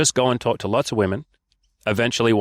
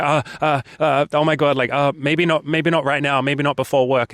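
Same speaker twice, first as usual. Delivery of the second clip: mildly flustered stammer, pitched up; imitating a flustered, higher-voiced reply; 4 semitones higher than usual. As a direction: play her caught off guard and hesitant. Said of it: "like, flustered".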